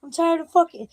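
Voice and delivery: high-pitched mock drunk scream. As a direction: imitate her screaming, high but not full volume. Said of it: "she just started screaming at him".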